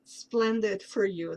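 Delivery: put-on slow, playful Mexican accent. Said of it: "That's my Mexican accent".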